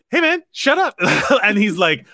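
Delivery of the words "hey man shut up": higher mock crowd telling off; lightly played annoyed audience; crowd scolding. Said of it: "the audience around him is like".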